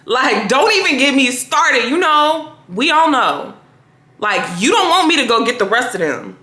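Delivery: knowing, lightly exasperated lawyer; pointed subtext. Shown as a demonstration. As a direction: press the point as a veiled warning. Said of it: "So it needed to be more of a".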